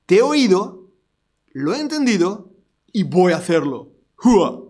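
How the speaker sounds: loud military acknowledgment; soldier's reply. Retold or imitated. Preacher voicing a ranger acknowledging a command loudly. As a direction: answer like a ranger taking orders. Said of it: "Son las siglas para decir".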